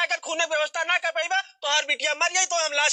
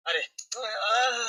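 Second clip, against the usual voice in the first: pained groan; 5 semitones lower, much slower than usual. Acted. Patient moaning before calling the doctor.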